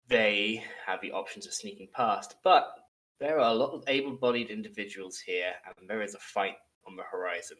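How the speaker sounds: measured storyteller scene setting; game master recap. A narrator's reading. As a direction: set the scene with deliberate pauses. Game master recaps last session.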